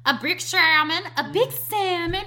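high, loud cartoon quote; cartoon mom voice. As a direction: repeat the cartoon line gleefully. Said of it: "the mom is like".

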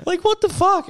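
very high-pitched disbelief; exasperated, voice way up; retold outrage. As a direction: act out being fed up with a mate. Acted phone quarrel, indignant comeback.

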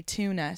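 "tuna" as TOO-nuh; American pronunciation. Shown as a demonstration. Irish comic adapting for American audiences, American pronunciation. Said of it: "words that I say differently".

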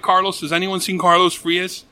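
retold announcement to find someone; calling over mic. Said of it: "I'm on the mic".

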